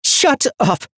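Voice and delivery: high, loud enraged command; furious shout. A narrator's reading. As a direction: explode at him. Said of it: "filled with incandescent violet rage".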